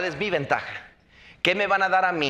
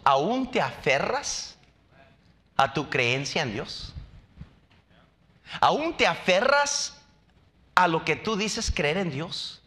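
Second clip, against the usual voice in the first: taunting wife; slower than usual. Pretend. Job's wife taunting, second take rising.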